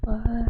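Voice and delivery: "Uh," as a French R, mid-gulp and a little raspy. Shown as a demonstration. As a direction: rasp "Uh," in the throat like gulping a French R. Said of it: "mid-gulp and you got a little raspy".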